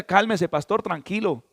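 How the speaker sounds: soft, calming hush; soothing hush. Retold or imitated. Congregant hushing an angry pastor, soft soothing hush. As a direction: settle him down gently, voice dropping. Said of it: "alguien le decía".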